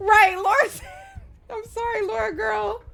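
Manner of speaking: chipmunk voice mod. Real, not acted. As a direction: greet through a chipmunk voice changer. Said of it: "It's giving chipmunk".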